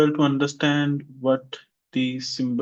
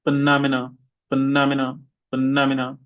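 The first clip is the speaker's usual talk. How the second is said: phenomena with stress on -nom-; stress demo; faster than usual. Shown as a demonstration. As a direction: say it clearly for the class to repeat. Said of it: "this is for the main stress".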